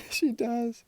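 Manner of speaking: high, loud, laughing confirmation. Real, not acted. Gossiping about your mum, laughing. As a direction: laugh right into the words.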